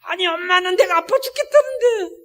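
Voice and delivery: high-pitched, whining imitation of an upset daughter; mock wail of teenage defiance; imitated tearful protest. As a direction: act out a child crying back at mom, pitch shooting up. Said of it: "엄마한테 막 대드는 거예요".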